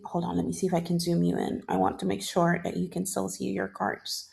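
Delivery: quick aside, words tumbling out; rapid nonstop chatter. Real, not acted. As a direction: rattle it off fast. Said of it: "for the yapping".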